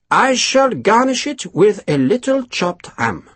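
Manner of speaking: stoic. A narrator's reading. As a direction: refuse to be moved. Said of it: "Durand said stoically".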